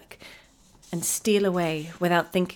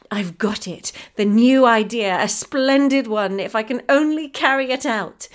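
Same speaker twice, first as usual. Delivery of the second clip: loud, thrilled inspiration; excited; 3 semitones higher, 8 dB louder than usual. A narrator's reading. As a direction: burst out with delight. Mother's sudden idea.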